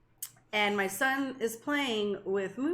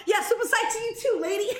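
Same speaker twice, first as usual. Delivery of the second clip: sassy dog voice; 10 semitones higher, 3 dB louder, faster than usual. Retold or imitated. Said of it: "And he's all".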